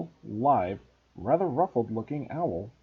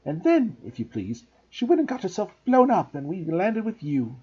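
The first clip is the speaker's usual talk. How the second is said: rattling on. Acted. Aunt rattling on about Harry's parents, bitter. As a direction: pour it out without stopping. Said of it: "went rattling on".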